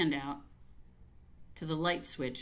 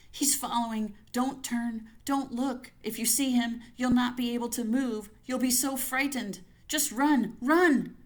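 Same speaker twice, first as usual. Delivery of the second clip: higher and louder, building to a frantic cry; terrified urging; 6 semitones higher, 5 dB louder than usual. Acted. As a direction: push yourself to run through terror. Inner voice urging her to flee.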